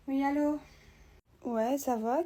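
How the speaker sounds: miserable phone greeting; at rock bottom. Acted. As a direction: answer the phone sounding done with life. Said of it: "Tu m'as l'air au bout de ta vie". (au bout de sa vie)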